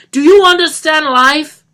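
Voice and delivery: high, loud, slow ranting shout; raging demand. Acted. Johnny shouting down at Lisa, slow raging demand. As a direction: demand an answer.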